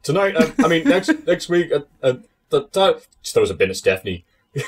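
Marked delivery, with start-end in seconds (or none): 0.0-3.1 higher, whiny mock demand for a title shot; Bulldog impression. Mocking Bulldog demanding a title shot, higher whiny imitation. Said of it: "oh, like". 4.6-4.6 much higher, whiny mock demand; Bulldog impression. Mocking Bulldog after the bin throw, high whiny imitation. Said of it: "he sucked at acting".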